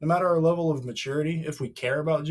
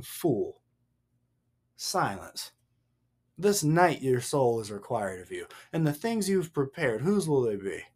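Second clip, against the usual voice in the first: solemn verdict; 8 semitones lower, 4 dB quieter than usual. Acted. Reads God's verdict on the fool.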